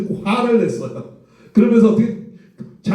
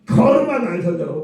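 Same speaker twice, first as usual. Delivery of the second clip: comic blunt version. Shown as a demonstration. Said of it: "떨어질까 봐 어떻게 해요?".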